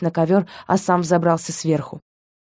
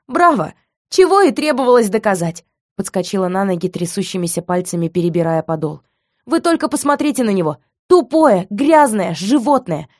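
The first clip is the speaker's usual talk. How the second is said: bitter sarcasm; 2 semitones higher than usual. Acted. Heroine mocking him bitterly.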